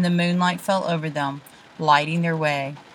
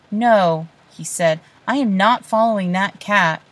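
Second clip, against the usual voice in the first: stubborn refusal; 3 semitones higher, 6 dB louder than usual. Acted. Boy refuses, stubborn quarrel.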